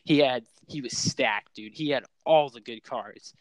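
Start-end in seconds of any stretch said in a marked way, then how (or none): 1.7-3.3 out of breath. Real, not acted. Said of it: "why does it sound like you're running a marathon".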